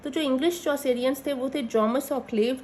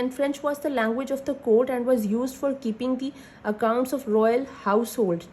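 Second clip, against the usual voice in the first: slow dictation; much slower than usual. Acted. Dictating notes slowly.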